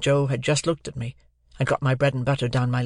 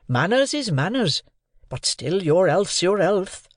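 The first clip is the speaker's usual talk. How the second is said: earnest Joe, pitch raised and swooping; aghast; 6 semitones higher, slower than usual. A narrator's reading. Joe fretting over Pip's health, aghast. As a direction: plead slowly in appalled concern. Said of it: "all aghast".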